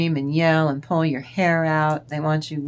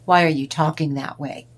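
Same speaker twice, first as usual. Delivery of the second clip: loud, irritated question; annoyed narcissist; 6 dB louder than usual. Retold or imitated. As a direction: quote the annoyed partner. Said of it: "it bugs the crap out of him".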